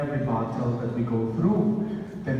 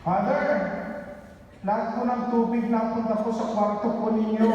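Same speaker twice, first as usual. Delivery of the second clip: put-on much higher, anxious young caller; seminarian's voice; 7 semitones higher than usual. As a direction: voice the worried seminarian on the phone. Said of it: "Sabi sa akin".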